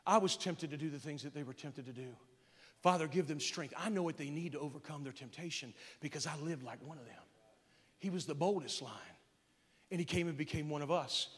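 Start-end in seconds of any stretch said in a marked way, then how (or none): 0.0-7.2 low, soft intercession to the Father; hushed, lowered voice of a son praying; Jesus. Acted. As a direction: plead quietly for them, as in private prayer. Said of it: "He says, "Father".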